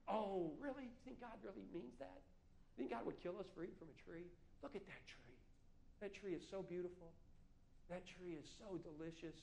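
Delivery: soft, sly tempter; serpent voice. Acted. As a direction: whisper temptation like a snake. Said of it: "it tries to fool us".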